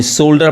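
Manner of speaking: "शोल्डर" with the L pronounced; sounded L. Shown as a demonstration. Teacher showing an exception, "शोल्डर" with sounded L. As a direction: say "शोल्डर", L heard before D. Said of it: "फिर भी ये एल पढ़ाएगा".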